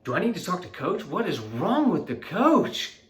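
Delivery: high, loud frantic sideline yell; panicking over the coach, loud and high; freaking out. Retold or imitated. Dad on the sidelines yelling about the coach, loud and high. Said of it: "I'm like, like, freaking out".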